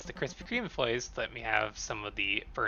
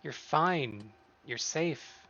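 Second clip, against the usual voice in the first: lightly voiced friend, pitched higher; reassuring friend; 4 semitones higher than usual. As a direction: reason with them and reassure, voice lifted.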